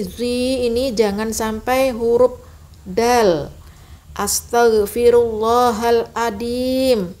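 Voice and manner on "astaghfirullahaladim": Astaghfirullahaladim with a d sound, slow; wrong dal. Shown as a demonstration. Teacher shows the dal mistake. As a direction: turn the zim into dal. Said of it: "Tidak benar".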